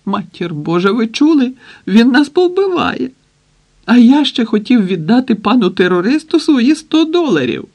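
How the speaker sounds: panicked wailing. A narrator's reading. Hostage wailing in panic to the others in the hall. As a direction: shriek in terror that he'll kill them all. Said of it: "У холі репетував Пустовоєв".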